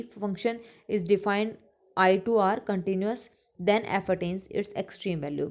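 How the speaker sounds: slow, deliberate English definition read for note-taking; slow dictation. Acted. Teacher dictating a theorem to her class, slow and deliberate. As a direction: spell it out slowly so students can copy.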